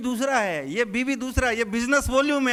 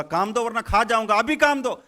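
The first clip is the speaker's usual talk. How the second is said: threatening demand; 5 dB louder than usual. Acted. Ghost threatens to eat farmer.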